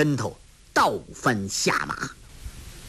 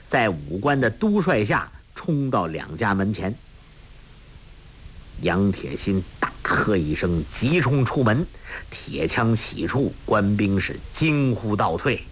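ordinary delivery, nothing marked

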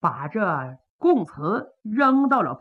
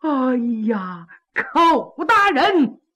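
dismayed villain; 4 semitones higher than usual. Acted. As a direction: beg to see the paper in alarm. Pan panics over the trick.

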